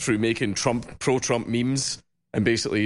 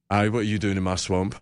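Scottish ogre line, pitched lower; Shrek; 4 semitones lower than usual. Acted. Guest doing the one people request, lower Scottish accent. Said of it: "the one that people make me say".

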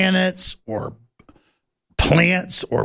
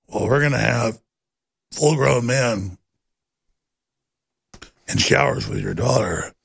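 mock news anchor; 5 semitones lower than usual. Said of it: "even CNN goes".

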